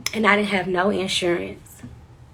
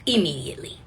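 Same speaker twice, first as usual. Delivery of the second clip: soft breathy aside; whispered echo; 4 dB quieter than usual. Real, not acted. Repeating to the audience, dropped to a whisper. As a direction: drop it to a whisper.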